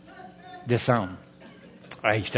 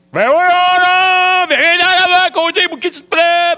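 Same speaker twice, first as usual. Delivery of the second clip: high, loud shouted call; loud driver's call; 11 dB louder than usual. Retold or imitated. Driver calling the narrator to the front, loud. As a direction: yell it from the driver's seat. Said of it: "Va aller nous laisser tranquille".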